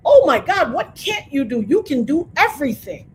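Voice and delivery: high, loud, amazed gushing; mock-amazed praise from admirers. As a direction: gush like a starstruck fan. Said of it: "What they say to me is".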